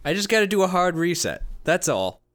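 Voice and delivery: put-on casual Brooklyn accent; a wiseguy Brooklyn accent. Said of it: "a Brooklyn accent for a Russian".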